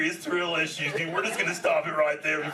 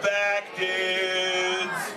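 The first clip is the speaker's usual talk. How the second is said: calling out; 5 semitones higher, 3 dB louder than usual. Acted. Calling out to the crowd.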